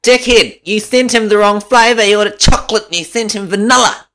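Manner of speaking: high, loud mock nag; squeaky mocking nag; mock wife. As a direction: ham up her telling-off. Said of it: "How do you say it then?".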